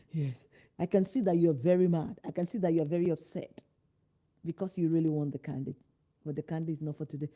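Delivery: soothing parent. Retold or imitated. Parent soothing upset child.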